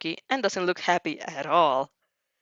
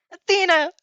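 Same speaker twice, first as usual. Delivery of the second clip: alarmed cry; 11 semitones higher, 7 dB louder than usual. A narrator's reading. Izuku crying out.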